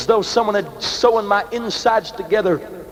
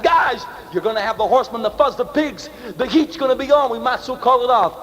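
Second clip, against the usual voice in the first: urgent call; 4 semitones higher than usual. Retold or imitated. Calling out to armed friends.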